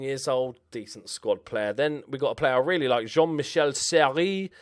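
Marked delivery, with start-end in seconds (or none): 3.1-4.5 slow, mock-posh French accent on the name; lightly put-on French accent. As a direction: say the name in a hammed-up French accent to sound clever. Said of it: "I just do it with an accent".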